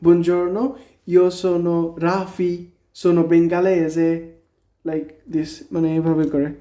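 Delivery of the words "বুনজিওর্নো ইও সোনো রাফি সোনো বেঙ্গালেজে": lightly voiced sample line; teacher shows how to introduce yourself; example introduction. Shown as a demonstration. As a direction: model it for the students. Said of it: "যেমন".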